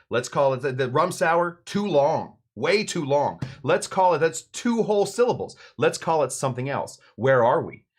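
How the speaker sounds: hammed-up objecting buddies; acted protest. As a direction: shout down a friend's bad idea in mock exasperation. Buddies shout down his name idea.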